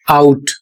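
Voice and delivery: आउट said as "out", an A gliding into U with a final T; आउट as a classroom example word; careful English pronunciation. Shown as a demonstration. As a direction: model आउट with a clear OW glide. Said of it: "इसका उच्चारण होगा".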